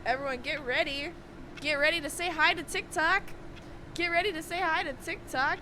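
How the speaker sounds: hyped streamer announcement voice; YouTuber voice. Acted. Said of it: "I just put on my YouTuber voice for that".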